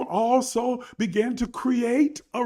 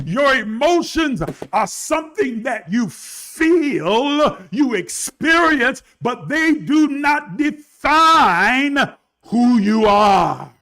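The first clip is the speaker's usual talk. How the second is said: preaching at full force; 2 semitones higher, 4 dB louder, slower than usual. Real, not acted. Preacher shouting to his viewers that emotions do not define them. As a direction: hammer it home to the church.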